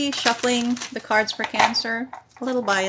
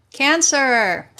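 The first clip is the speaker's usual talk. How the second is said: excited call; 5 semitones higher, 8 dB louder than usual. Real, not acted. Card drawn for her own sign.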